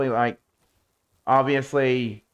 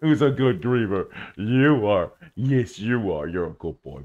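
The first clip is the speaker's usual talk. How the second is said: pet talk to a lion; 5 semitones lower than usual. Real, not acted. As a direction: coo at the pet lion like a puppy. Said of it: "Why am I talking like this?".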